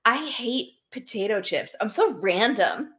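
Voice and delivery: a hint of a quirky college kid; mock the self-proclaimed weirdo, laughing; quirky girl impression. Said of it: "that impression of people we knew".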